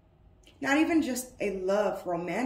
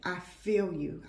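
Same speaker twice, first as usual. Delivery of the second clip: empathetic. Real, not acted. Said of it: "tapped into your energy".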